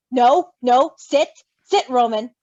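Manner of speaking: loud, sharp commands to a dog; firm dog command. Acted. Virgil orders Roman to sit, loud and firm.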